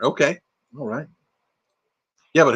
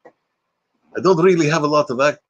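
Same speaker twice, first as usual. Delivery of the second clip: mock French accent turning Russian; muddled French-Russian accent; French slipping into Russian. Shown as a demonstration. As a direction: let a fake French accent slip into Russian. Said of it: "just went to Russian".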